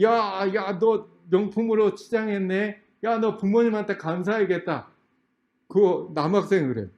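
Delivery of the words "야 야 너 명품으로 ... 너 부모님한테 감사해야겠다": higher-pitched teasing-friendly exclamation; acted-out adult addressing a student; admiring elder. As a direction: greet a youngster with impressed surprise. Preacher replays remark to student.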